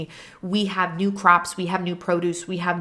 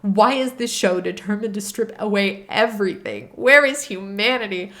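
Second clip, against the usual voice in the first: read out mad. Retold or imitated. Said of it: "at this point I'm mad".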